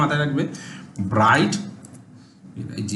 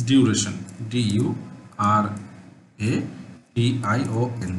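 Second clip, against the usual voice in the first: ডিউরেশন stretched very slowly, then spelled letter by letter, softer; drawn-out spelling; 5 semitones lower, 5 dB quieter, much slower than usual. Shown as a demonstration. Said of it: "short". (ডিউরেশন খুব টেনে টেনে ধীরে বলে বানান করা)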